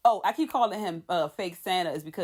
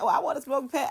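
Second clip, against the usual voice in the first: higher, whiny retold cry; mock crying; 5 semitones higher, faster than usual. Denise whining to Pat under stress, mock crying. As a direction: imitate someone starting to cry. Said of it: "so Denise get the crying".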